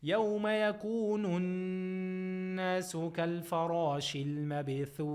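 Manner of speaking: chanted tajweed recitation, held and measured; Quran recitation. Shown as a demonstration. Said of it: "you can say with six harakats".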